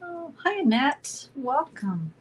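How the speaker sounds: bright high hello to a chatter; light up greeting a friend; chirpy high welcome; excited greeting. Real, not acted. Greets viewer in live chat.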